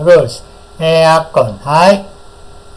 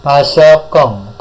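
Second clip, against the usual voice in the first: Pasokong spoken slowly, syllable by syllable; slow model word; 5 dB louder, much slower than usual. Shown as a demonstration. Teacher modelling a new word for students, slowly. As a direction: say Pasokong slowly so the class can copy it. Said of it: "saya ucapkan satu kali diikuti".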